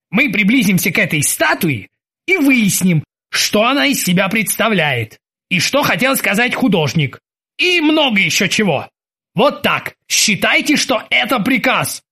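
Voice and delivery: self-important captain issuing instructions; commanding captain. Acted.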